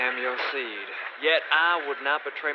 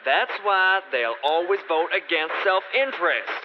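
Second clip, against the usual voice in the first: higher and louder, pressing the point; heated; 5 semitones higher, 4 dB louder than usual. Acted. Mordred arguing against the king at court, heated and louder. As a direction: lecture them with rising heat.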